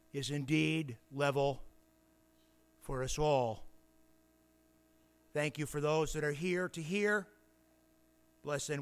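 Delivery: deliberate prayer in short phrases; public prayer. Real, not acted. Preacher asks Father to help them understand, measured prayer. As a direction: pray aloud with weighty pauses between phrases.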